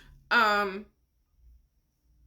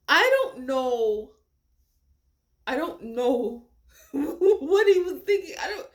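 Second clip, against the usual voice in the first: slow, louder, laughing mid-sentence; laughing disbelief; 3 semitones higher, 5 dB louder, slower than usual. Real, not acted. Vlogger puzzled by the killer's thinking, laughing slowly. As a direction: laugh helplessly at his choices.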